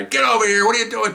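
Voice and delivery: high-pitched imitated yell; retold yelling. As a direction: bawl out a subordinate, acted. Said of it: "he starts yelling at the guy".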